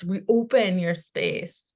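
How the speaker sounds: slow, deliberate relayed advice; animated. Retold or imitated. Passing on her father's spirit's advice, slow and deliberate. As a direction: draw each word out like a patient instruction. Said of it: "He's being very animated about this".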